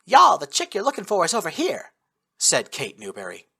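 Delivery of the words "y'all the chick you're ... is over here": put-on Texan sniper calling out with a thick Texan accent. A narrator's reading. Sniper greets the squad in a thick Texan accent. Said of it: "speaking with a thick Texan accent".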